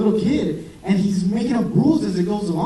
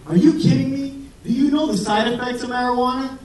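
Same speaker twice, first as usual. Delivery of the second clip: higher-pitched, mildly outraged retelling of the glaring doctor; indignant preceptor; 6 semitones higher than usual. Retold or imitated. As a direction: play the shocked old-school doctor, a bit over the top. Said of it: "he glared at me and said".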